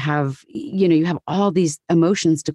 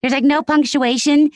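much higher, airy voice with unlanded sentences; slowed, high and drifting Goldie Hawn; Goldie Hawn impression; 10 semitones higher than usual. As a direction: float it up without landing the ends. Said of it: "her voice is so".

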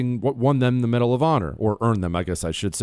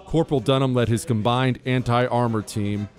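formal, measured citation reading over music; crisp military citation. Acted. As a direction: read it like an official military honor. Reads a Medal of Honor citation.

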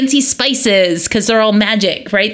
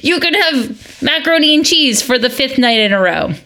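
fed-up mom; 3 semitones higher than usual. Retold or imitated. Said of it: "the mom who was like".

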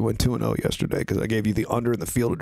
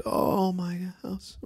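mock whisper; 7 semitones higher, 5 dB quieter, much slower than usual. Mocking fragile team president.

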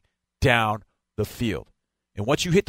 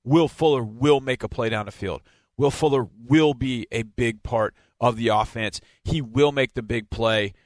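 measured delivery leaning on "will"; stress on WILL. Real, not acted. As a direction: stress the verb "will" each time, deliberately. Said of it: "And I stress the word will".

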